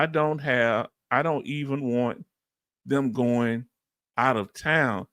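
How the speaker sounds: measured, halting read-out of a comment; reading aloud. Acted. Host reads a sister's worry about sons, low measured reading.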